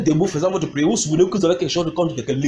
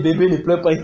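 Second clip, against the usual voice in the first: mock hushing a baby, loudly; imitated soothing parent; 2 semitones higher, 5 dB louder than usual. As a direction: play a parent talking over a crying baby. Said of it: "Comme ça".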